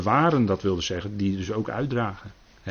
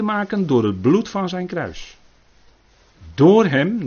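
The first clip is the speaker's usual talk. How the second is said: raised, higher preaching voice; fervent preaching; 9 semitones higher, 6 dB louder, slower than usual. Acted. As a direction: preach it out with full conviction. Preaching with rising force. (vurig preken met verheven stem)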